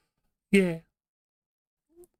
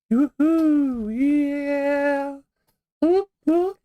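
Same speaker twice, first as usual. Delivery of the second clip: excited whoop; 5 semitones higher, much slower than usual. Real, not acted. Celebrating vaping ban reversal.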